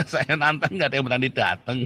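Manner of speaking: said through a laugh; amused taunt. Real, not acted. Preacher taunting challengers who never show up, amused taunt. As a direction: laugh while throwing out the challenge.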